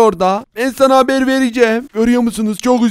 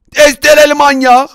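raised, loud cry of alarm; startled recognition, pitched up; 4 semitones higher, 5 dB louder than usual. Acted. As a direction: call out in fright. Recognises the chainsaw maniac.

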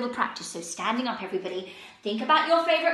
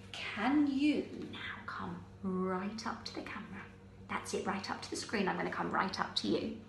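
low, soft, close-up voice; softly inviting; hushed; 5 semitones lower, 10 dB quieter than usual. Shown as a demonstration. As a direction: draw them in close with a hushed voice. Beckons children close, before tiny-voice game.

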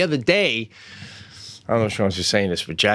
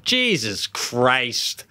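put-on drawn-out "Jesus Christ" like a little kid; slow toddler curse; much slower than usual. Daughter swearing when a bike fell, slow and drawn out. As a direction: stretch it out the way a toddler would. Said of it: "A bike fell down".

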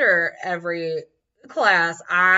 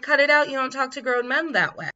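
sharp raised reprimand, higher pitch; stern scolding; 5 semitones higher than usual. Retold or imitated. Quoted adult scolding a teen, stern and raised.

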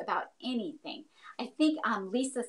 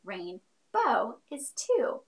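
slowed way down, counting it out; much slower than usual. Shown as a demonstration. Teacher showing kids how to count syllables, slow. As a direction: drag it out as you count. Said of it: "So rain is one".

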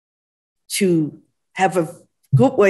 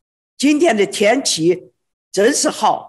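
Shandong dialect. Shown as a demonstration. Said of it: "But in Shandong province ... we'll say".

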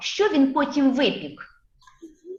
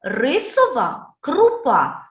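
put-on measured syllable drill for children; teacher modelling a rhyme to repeat; tongue-twister model; 2 semitones lower, slower than usual. Shown as a demonstration. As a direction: chant it out slowly, syllables apart. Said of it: "послухати чистомовку".

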